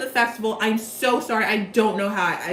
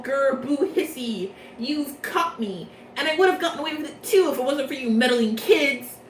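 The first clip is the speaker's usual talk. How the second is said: a hammed-up cartoon villain growling at being caught; 2 semitones higher than usual. Leona caught by the students, mock villain grumble. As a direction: sulk like a caught Scooby-Doo villain. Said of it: "So Leona is all".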